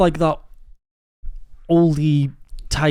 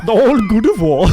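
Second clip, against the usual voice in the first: laughing, louder mimicry; mocking imitation; 3 semitones higher, 6 dB louder than usual. Friend echoing the fan's stumble, laughing mockery. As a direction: tease him by parroting his excited slip.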